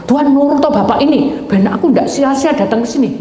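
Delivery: mock prayer bossing God about; demanding prayer. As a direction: order God around, half joking. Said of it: "saya ndak mau merintah Tuhan".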